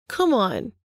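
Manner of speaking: lilting teasing "Come on"; sing-song. Acted. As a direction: sing it out mockingly. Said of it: "he said in a sing-song voice".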